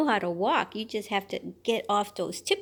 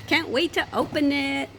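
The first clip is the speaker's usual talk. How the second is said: ordinary talk, nothing marked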